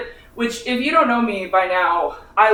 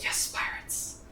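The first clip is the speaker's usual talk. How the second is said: whispered excitement; 14 dB quieter, slower than usual. Retold or imitated. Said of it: "I was like".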